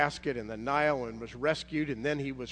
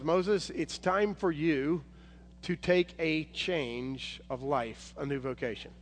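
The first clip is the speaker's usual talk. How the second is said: slow, measured divine voice; voice of God; slower than usual. Acted. God calls Moses to a new life, slow and weighty. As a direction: speak slowly and gravely as God calling. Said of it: "the voice comes from God and says".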